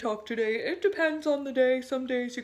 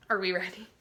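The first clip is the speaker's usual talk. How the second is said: ordinary talk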